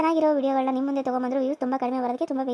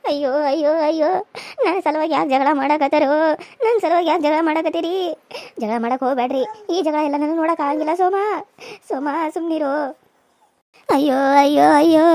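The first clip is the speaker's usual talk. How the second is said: put-on old mother lamenting, ayyo ayyo; wailing old mother; 6 dB louder than usual.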